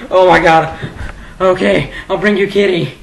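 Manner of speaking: loud, high, laughing through it; laughing relief. Pretend. Imagined garage scare, laughing relief. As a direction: give in while cracking up. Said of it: "And you're like".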